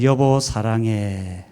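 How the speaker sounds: slow, gentle 여보 사랑해 said to a wife; tender "honey, I love you". Shown as a demonstration. Pastor models a husband's words to his wife, slow and tender. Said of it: "따라해봅시다".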